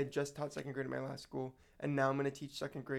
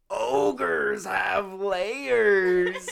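laughing shout; 6 semitones higher, 13 dB louder, much slower than usual. Retold or imitated. Kid quoting Shrek loudly.

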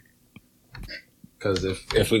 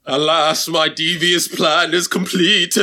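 slow, higher hammed-up schemer voice; mock villain; 4 semitones higher, slower than usual. Comic gloats at derailing his flustered co-host, mock villain. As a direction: gloat theatrically, drawing the words out.

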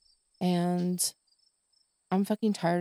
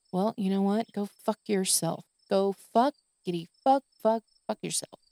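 angry outburst. Real, not acted. Venting at people who blame her, angry curse. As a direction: spit out a bitter, stumbling curse at them.

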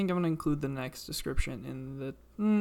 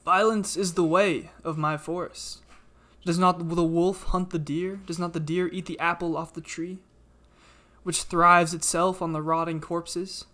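talking tree; 4 dB louder than usual. Acted. GM voices the tree.

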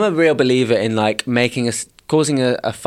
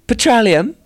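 mocking; 9 semitones higher, slower than usual. Real, not acted. Mocking mispronunciation.

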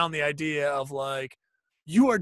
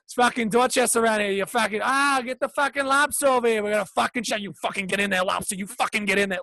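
higher, brash mock Boston accent; New England accent; 5 semitones higher, faster than usual. Rowdy Boston locals yelling at the lobster, mock Boston accent. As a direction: ham up a rowdy Dorchester local. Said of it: "New England accents".

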